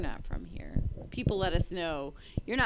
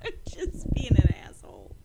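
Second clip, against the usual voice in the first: louder words bursting through laughter; laughing confession; 5 semitones higher, 5 dB louder than usual. Real, not acted. Co-host owning up to teasing him, laughing confession. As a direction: admit it through real giggles.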